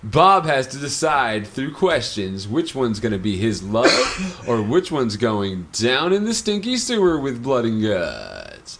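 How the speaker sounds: slow, drawn-out host teaser; game show host. Pretend. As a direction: stretch it out for suspense.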